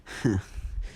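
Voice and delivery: short breath of a laugh; little put-on laugh before a speech; acted scoff laugh. Izuku begins monologuing at Bakugo, acted laugh. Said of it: "monologuing, I guess".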